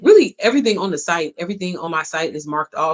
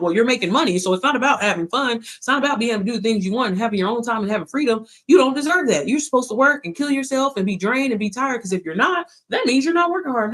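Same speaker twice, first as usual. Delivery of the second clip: mocking the naysayers; 4 semitones higher than usual. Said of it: "the misconception that a lot of people have".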